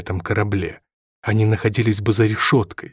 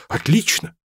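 bright rising cry of Отлично!, pitched higher; Отлично! thrown up high with delight; exclaiming; 8 semitones higher than usual. A narrator's reading. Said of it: "воскликнул Робин".

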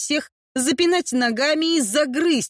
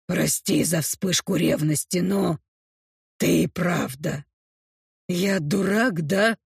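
low sheepish orc; 6 semitones lower than usual. Acted.

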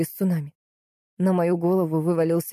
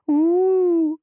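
a loud, much higher drawn-out howl; dog howl; 11 semitones higher, 5 dB louder than usual. A narrator's reading. The puppy howls when clawed, loud howl. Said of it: "взвыл Муся".

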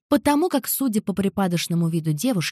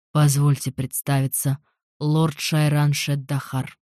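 low, slow dark lord voice; slow, low and menacing introduction; booming echoing villain monologue; 4 semitones lower than usual. Acted.

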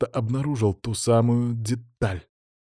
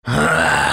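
low pained gasp; pained cry; 7 semitones lower, 4 dB louder than usual. A narrator's reading. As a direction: cry out briefly in pain. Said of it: "вскрикнул Городецкий".

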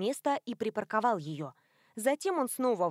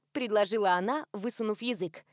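plain reading voice

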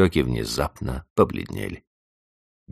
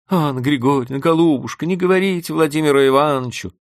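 put-on high, louder begging girl; pleading; 11 semitones higher, 5 dB louder than usual. A narrator's reading. Frightened Vanda begging the housekeeper, high plea. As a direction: plead desperately, clinging. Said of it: "упрашивала".

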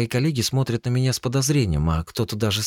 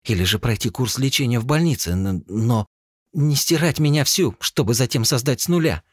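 higher and louder, choked anger; tearful fury; 10 semitones higher, 4 dB louder than usual. Acted. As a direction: rage through tears at her brother. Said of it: "разрыдалась и в бессильной злобе".

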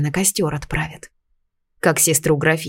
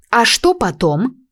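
slow, higher curious fairy voice; pixie voice; 6 semitones higher, 4 dB louder, slower than usual. A narrator's reading. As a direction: draw out the question like an intrigued little fairy. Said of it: "заинтересовалась Ресинта".

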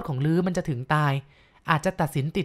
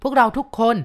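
louder and higher, calling out to wake everyone; 5 semitones higher, 6 dB louder than usual. A narrator's reading. Tiger suddenly calls out to the dozing soldiers, loud. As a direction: rouse the sleeping men with a sudden call. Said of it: "มันพูดเสียงดังว่า".

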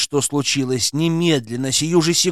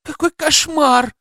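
very high, slow mock dismay; girl lamenting as the botanist appears; 12 semitones higher, slower than usual. A narrator's reading. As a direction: wail the complaint theatrically. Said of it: "посетовала Кира".

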